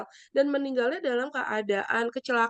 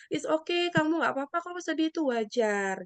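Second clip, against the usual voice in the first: reassuring validation; 5 semitones higher than usual. Shown as a demonstration. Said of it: "memvalidasi emosinya dia".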